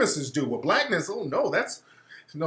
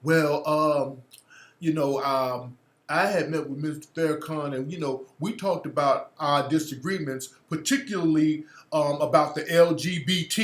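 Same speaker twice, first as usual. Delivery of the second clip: mocking Mark Lamont Hill; 3 semitones lower than usual. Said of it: "he started trying to nigga-splain".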